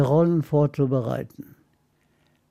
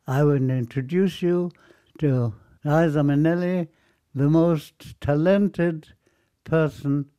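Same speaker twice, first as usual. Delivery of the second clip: put-on English line with a light German accent, slowing on the most talented; imitating Joel Grey's German-accented English. Joel Grey introducing a singer, in German-accented English. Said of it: "Er musste mit dem deutschen Akzent sprechen".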